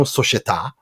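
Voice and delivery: società said the Italian way, stress on the final a; Italian pronunciation. Shown as a demonstration. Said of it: "to use Italian terminology".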